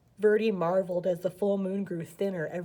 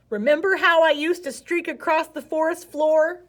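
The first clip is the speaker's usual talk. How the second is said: put-on reminiscing old snake; 7 semitones higher, 5 dB louder than usual. A narrator's reading. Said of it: "Ribbon asked".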